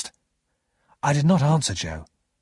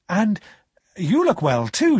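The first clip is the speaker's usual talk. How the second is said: high, bright return compliment; eager reply; 8 semitones higher, 4 dB louder than usual. A narrator's reading. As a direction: answer your friend eagerly, pitched up high. Pip eagerly returns Joe's compliment.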